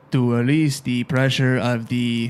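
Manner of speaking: slow, stilted Wakandan accent attempt; robotic stab at a Wakandan accent; Black Panther. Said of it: "I sound like a robot".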